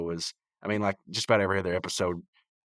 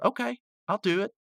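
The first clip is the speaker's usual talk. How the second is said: high imitated cartoon voice; exasperated giving in; 13 semitones higher than usual. Rigby giving in to pleading Mordecai, high mock exasperation.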